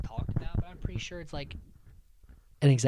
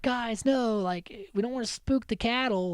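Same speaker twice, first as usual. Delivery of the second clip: higher-pitched worried plea; mock pleading warning; 9 semitones higher than usual. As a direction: imitate someone urging friends to stop. Acts out Sammy warning the others.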